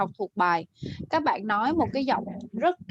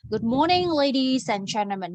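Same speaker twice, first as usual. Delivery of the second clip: raised voice. Shown as a demonstration. Teacher modelling a show opener, raised voice. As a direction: open brightly to win the audience, pitch up at the start. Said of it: "mình phải nói lớn lên".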